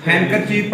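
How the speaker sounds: हैंकरचीफ said "hankerchief", no D; silent D. Shown as a demonstration. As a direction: drop the D after the N in हैंकरचीफ. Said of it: "डी नहीं पढ़ना".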